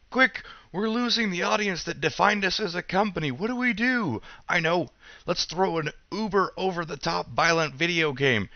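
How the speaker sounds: panicked executive voice. Pretend. Mock panicked Nintendo executives.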